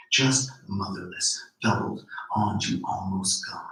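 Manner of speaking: slow, measured poetry reading; poem reading. Acted. Poet reading her poem to the audience, measured. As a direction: read each line as a spoken poem.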